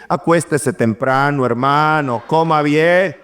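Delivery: low-pitched deadpan priest's reply; unimpressed parish priest. Retold or imitated. Parish priest answering a visionary parishioner, low and dismissive. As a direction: brush the parishioner off, dropping the voice low.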